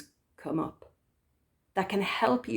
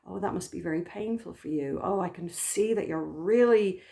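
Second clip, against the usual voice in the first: kind mother voice. Retold or imitated. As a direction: comfort an upset child like a loving mother. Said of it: "there's this kind tone of voice".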